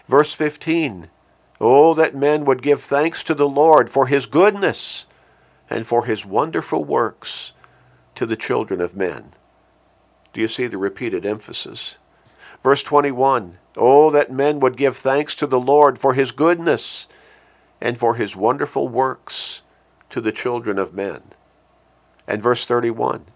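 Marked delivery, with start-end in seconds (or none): 1.6-9.3 loud rising start, falling away at the end; loud proclaiming then settling; fervent refrain. Acted. Repeats refrain. 13.8-21.2 fervent refrain. Acted. Repeats refrain.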